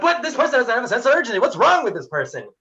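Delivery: mock a hurried colleague baffled by slowness; impatient colleague. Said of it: "They're gonna be like".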